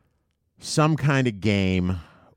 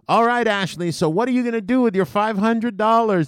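radio host; 12 semitones higher, 4 dB louder than usual. Retold or imitated. Host voiced.

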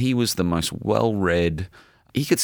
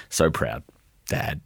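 choked up; slower than usual. Real, not acted. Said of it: "I can't even get it out".

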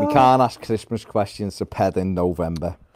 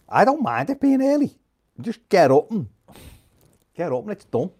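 mock high voice; 9 semitones higher than usual. Jokey high put-on reply.

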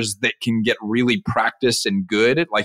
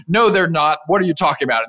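lightly acted dismissive mom; higher, mildly incredulous brush-off; 5 semitones higher than usual. Mom brushes off kid's dragon, lightly dismissive. Mom's dismissal in retold story.

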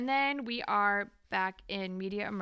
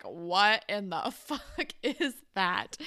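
laughing disbelief; 4 dB louder, slower than usual. Retold or imitated. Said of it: "He's like".

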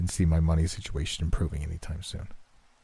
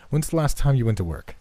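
pointed question; 6 semitones higher than usual. A narrator's reading. Suddenly suspicious, confronts friend.

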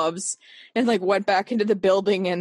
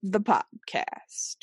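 William Shatner; 4 dB quieter, much slower than usual. Pretend. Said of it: "I'm talking like William Shatner".

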